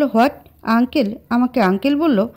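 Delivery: outraged disbelief at being called uncle; young man shocked to be called uncle; wide-eyed shock. Acted. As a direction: gasp it in indignant surprise. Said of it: "চোখ বড় বড় করে বলল".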